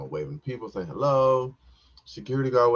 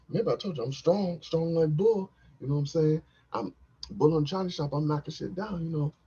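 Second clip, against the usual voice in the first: higher strongman brag, "strong like bull"; mock strongman; 9 semitones higher than usual. Comic bragging to the crowd, mock strongman voice. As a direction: puff up like a strongman.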